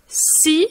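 Si with a long hissed S; stressed S. Shown as a demonstration. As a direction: lean on the S in Si. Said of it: "on insiste sur le S".

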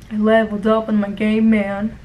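lightly voiced, low gamer brag; imitating dull coworker. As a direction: mimic a boring coworker, pitched a touch down. Mimicking the boring coworker's brag.

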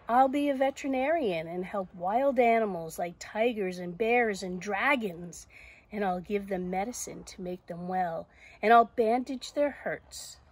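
animated storybook heroine; eager Zoe. Acted. Zoe planning to care for wild animals, eager. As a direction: list the dream with keen conviction. Reads Zoe's plans.

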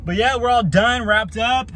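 winded after a hot job; out of breath. Real, not acted. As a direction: talk while catching your breath. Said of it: "I'm out of breath".

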